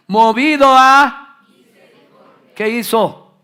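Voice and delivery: very loud, high shouted preaching. Real, not acted. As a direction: thunder it at the congregation. Predicador gritando con fuerza. (predicación a gritos, muy fuerte)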